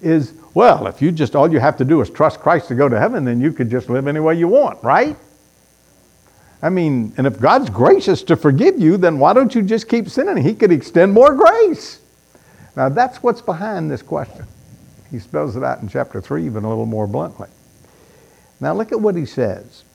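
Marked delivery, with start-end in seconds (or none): 0.5-12.0 mock objector. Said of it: "the objection people have to that". 18.6-19.8 whispered aside; hushed, conspiratorial aside. Real, not acted. Unvoiced aside to congregation.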